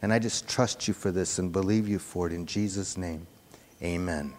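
low, measured prayer voice. Real, not acted. Preacher closing a prayer to the Lord, low prayer voice. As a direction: pray earnestly, keeping it low.

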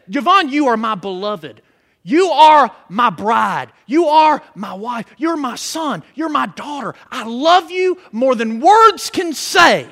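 God lovingly addressing Yvonne; tender voice of God. Acted. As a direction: speak as a loving father to a beloved child. God speaking tenderly to believer.

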